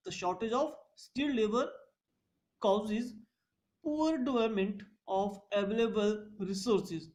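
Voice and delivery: drawn out with pauses between phrases for notes; slow dictation. Shown as a demonstration. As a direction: read the point slowly for students to copy. Repeats the point as dictation. (धीमे-धीमे notes लिखवाना)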